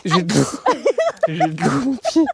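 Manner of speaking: high loud yelps of surprise; startled cries. Real, not acted. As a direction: cry out as your feet sink. Sinking into muddy water.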